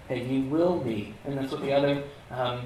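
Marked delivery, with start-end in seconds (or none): 0.1-1.1 "will" hit hard with a falling tune; stress on will. Shown as a demonstration. Preacher driving home "will" to listeners. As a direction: punch the word "will". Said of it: "It's the will be part".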